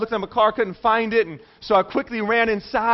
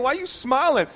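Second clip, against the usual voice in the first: higher-pitched mock irritation; a little irritated; 4 semitones higher than usual. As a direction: retell it as a mildly annoyed question. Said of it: "I'm getting a little irritated".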